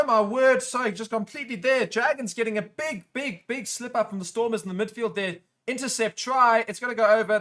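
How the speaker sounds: high, loud, rushed burst of real excitement; excited outburst. Real, not acted. Commentator reacting live to the shock intercept, excited shout. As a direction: blurt it out as the try happens.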